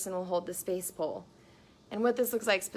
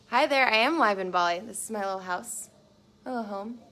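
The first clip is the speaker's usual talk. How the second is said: mock vlogger greeting; 4 dB louder than usual.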